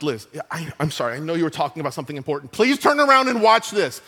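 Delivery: urging his wife to turn and watch the TV; excited plea. Retold or imitated. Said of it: "I was like".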